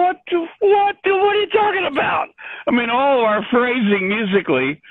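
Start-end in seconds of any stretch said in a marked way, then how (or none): 0.0-2.3 shocked disbelief. Retold or imitated. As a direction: yelp it out, astonished. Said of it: "I go".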